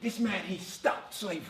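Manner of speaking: bad, slow Canadian accent; a deliberately poor Canadian accent. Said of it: "this is my worst attempt at a Canadian accent".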